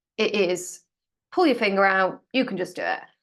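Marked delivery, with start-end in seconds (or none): 1.4-3.0 bossy, hectoring nag, pitch swooping up and down. Imitating the inner voice that pushes people to act: imitating a hectoring tone. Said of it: "is in a hectoring tone".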